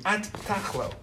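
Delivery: softly coaxing; soft touch. Shown as a demonstration. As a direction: open him up with a soft touch. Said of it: "this is a soft touch".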